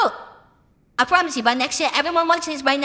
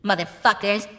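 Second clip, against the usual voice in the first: American accent; 5 semitones lower than usual. Shown as a demonstration. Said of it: "I switch off to an American accent".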